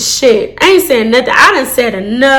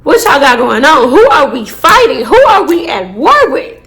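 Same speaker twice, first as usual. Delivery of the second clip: incredulous. Retold or imitated. Incredulous questions to the officer.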